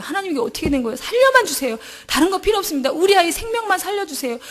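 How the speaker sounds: tearful plea. Retold or imitated. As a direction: beg God through tears. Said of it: "눈물로 부르짖었든지".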